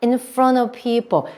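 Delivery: "people" stretched and stressed; slow phrase landing on a strong "people". Shown as a demonstration. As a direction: lean on the first syllable of "people". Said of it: "people 강세 넣으실게요".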